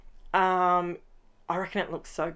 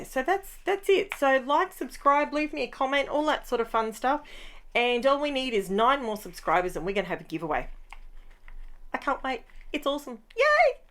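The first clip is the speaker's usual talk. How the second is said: much higher, bubbly outro cheer; excited sign-off; 6 semitones higher than usual. Real, not acted. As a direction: rise into a bright happy send-off.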